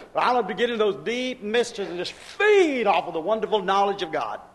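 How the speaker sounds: rhythmic, chant-like list of devotions; preacher rolling on with mounting zeal; fervent preaching. Real, not acted.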